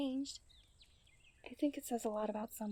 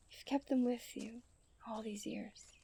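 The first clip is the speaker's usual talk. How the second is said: tender whisper; 4 dB quieter than usual. Acted. Tender close about his parents.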